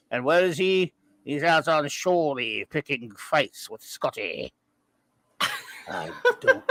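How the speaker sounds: glitchy android announcer; lightly done Max Headroom. Acted. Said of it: "I'm Max Headroom".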